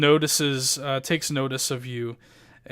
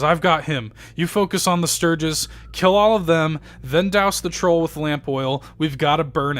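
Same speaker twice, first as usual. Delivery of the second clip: a lightly voiced barkeep giving louder battle orders; rally them, louder on kill all of them; urgent command; 3 semitones higher, 5 dB louder than usual. Barkeep directing the heroes in the fight, mildly raised orders. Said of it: "He says".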